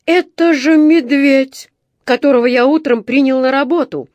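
bewildered foreman's outburst; astonished foreman. A narrator's reading. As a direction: foreman realises the bear is his new worker, loud and amazed. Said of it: "удивился мастер".

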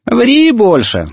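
high, drawn-out teasing scoff; acted girlish amusement, stretched out; laughing girl. A narrator's reading. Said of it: "засмеялась Нюшка".

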